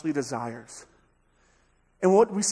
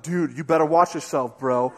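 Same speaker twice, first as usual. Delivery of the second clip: bad attitude; 3 semitones lower, 6 dB louder than usual. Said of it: "our attitudes are the worst".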